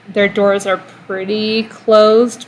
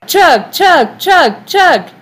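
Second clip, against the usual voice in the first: high loud chug chant; frat bro; 8 semitones higher, 4 dB louder, much slower than usual. Real, not acted. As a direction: cheer on the chugging. Chanting to drinker.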